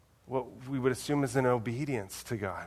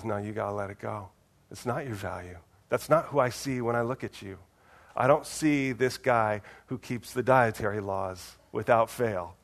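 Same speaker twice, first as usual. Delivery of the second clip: gentle correction; 2 semitones lower than usual. Retold or imitated. Pastor voices God gently correcting.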